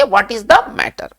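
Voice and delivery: each English word spaced out very slowly; slow dictation. Shown as a demonstration. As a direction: spell it out slowly for the class to repeat. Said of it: "किस प्रकार से कहेंगे".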